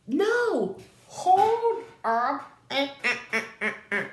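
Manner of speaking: high, loud interjection breaking into stutters; mock alarm. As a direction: halt everything with a playful high cry. Stops herself mid-story.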